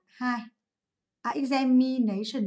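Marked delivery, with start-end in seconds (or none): 1.3-2.4 "examination" slowly, syllable by syllable; syllable stress demo. Shown as a demonstration. Teacher counting syllables for students, "examination" slow and measured. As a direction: spell out the beats of "examination" slowly. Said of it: "số bốn chứ, xin lỗi".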